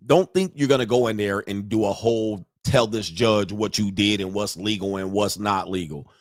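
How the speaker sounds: normal talking voice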